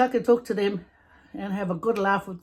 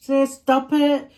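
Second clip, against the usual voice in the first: laughing; 7 semitones higher, 5 dB louder, slower than usual. Real, not acted. Laughing at imagined viewers.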